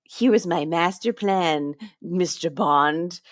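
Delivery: slow, lightly played villain; mock-menacing villain, unhurried; villainy. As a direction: draw it out like a scheming villain. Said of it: "needs to do the villainy kind of".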